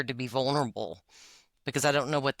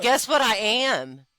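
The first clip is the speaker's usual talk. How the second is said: laughing tease; 7 semitones higher, 6 dB louder, slower than usual. Real, not acted. Teasing reveal of her type.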